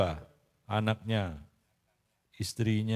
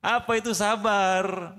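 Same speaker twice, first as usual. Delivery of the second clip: higher, drawn-out question; insistent questioning; 5 semitones higher than usual. Real, not acted. Preacher pressing his silent congregation for an answer, insistent. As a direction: press the question, slowly and high.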